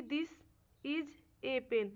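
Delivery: drawn-out, measured teacher's reading; slow, word-by-word English example. Shown as a demonstration. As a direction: read the English words slowly, spaced apart. Teacher reads out example translation.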